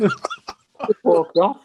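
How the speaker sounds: slow, drawn out through real laughter; slowed right down, laughing. Real, not acted. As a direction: laugh it out as you repeat it. Laughing repeat of punchline.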